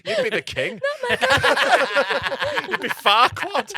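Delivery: laughing while saying it; giggling through the line. Real, not acted. Casting Shrek roles, laughing.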